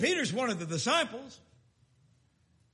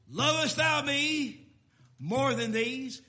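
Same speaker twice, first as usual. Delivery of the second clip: pressing Lord's question; 5 semitones higher, 6 dB louder, slower than usual. Retold or imitated. The Lord asks again, loud, slow.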